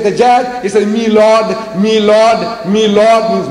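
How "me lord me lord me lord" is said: a light imitation of an Englishman's clipped "Me lord", pitched higher; English courtroom accent. An Englishman in court addressing the magistrate, lightly imitated English accent. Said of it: "The Englishman is talking about the magistrate".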